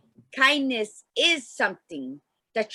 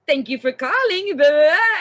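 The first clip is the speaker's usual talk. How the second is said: smiling operator; 4 semitones higher, 6 dB louder than usual. Retold or imitated. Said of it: "you hear it in their voice".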